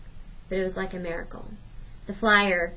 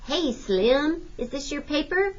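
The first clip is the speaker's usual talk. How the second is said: calling out; 7 semitones higher, slower than usual. A narrator's reading.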